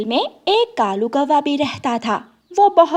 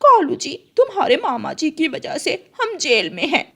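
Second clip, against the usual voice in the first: higher, reproachful; blaming crow wife; 5 semitones higher than usual. Acted. Crow wife in jail blames husband, reproachful. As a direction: scold him for the uncle.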